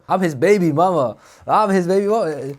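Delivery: loud mock claim of being the baby mama; mock baby mama yell. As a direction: announce it like a jealous ex. Baby mama confronts at table.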